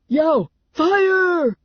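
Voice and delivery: high, loud alarm shout; full-voiced, high-pitched panic; panicked yell. A narrator's reading. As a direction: yell fire to the whole room. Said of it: "Clown yelled".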